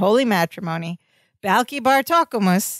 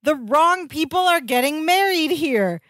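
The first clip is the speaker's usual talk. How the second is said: announcing to everyone; 5 semitones higher than usual. Retold or imitated. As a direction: act out halting the ceremony, pitched up. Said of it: "announces to the whole wedding".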